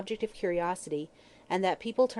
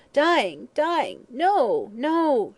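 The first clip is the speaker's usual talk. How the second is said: loud, high cries, each falling away; terrified wail; 7 semitones higher, 7 dB louder, much slower than usual. A narrator's reading. Woman told she is dying, terrified wail. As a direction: wail in mounting terror. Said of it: "she wailed".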